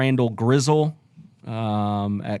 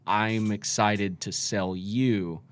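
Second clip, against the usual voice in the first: pushy salesman; 4 semitones lower, much slower than usual. Pretend. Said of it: "The vultures".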